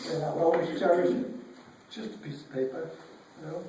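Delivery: choked up, catching breath; catching breath midword. Real, not acted. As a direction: voice catching with emotion. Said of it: "I'm sorry I'm emotional".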